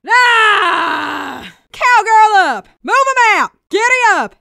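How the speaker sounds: a sassy Texan cowgirl barking battlefield lines. Acted. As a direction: play the Texan engineer, cocky and folksy.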